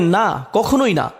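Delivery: "না, কখনোই না" said slowly with weight on কখনোই; slow emphatic denial. Retold or imitated. Teacher stressing God's firm refusal, slow and emphatic. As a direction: lean hard into কখনোই, slowly. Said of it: "আল্লাহ বলেন".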